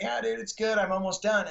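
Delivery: put-on a keen kid answering his hero; younger self.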